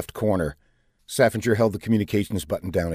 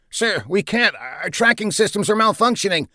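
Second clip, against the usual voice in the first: alarmed; 11 semitones higher than usual. A narrator's reading. Captain reports failure under pressure.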